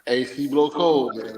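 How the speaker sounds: slow, drawn-out sales pitch; slick used car salesman. Acted. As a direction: repeat the pitch slowly, selling it. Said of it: "That's that car salesman pitch".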